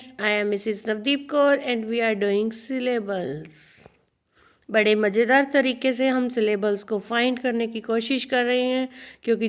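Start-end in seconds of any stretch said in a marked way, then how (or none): 0.0-3.5 slow, careful teacher voice; slow lesson intro. Shown as a demonstration. Teacher introducing the lesson to students, slow and careful. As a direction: spell it out slowly for the class.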